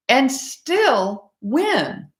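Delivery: real emotion swelling in the voice; getting emotional. Real, not acted. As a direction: lift it high as the emotion wells up. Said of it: "pardon me for getting a little emotional".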